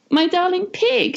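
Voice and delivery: put-on very high, sugary girl voice; sweet Miss Hood. Miss Hood sweet-talking the pig, very high. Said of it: "she said".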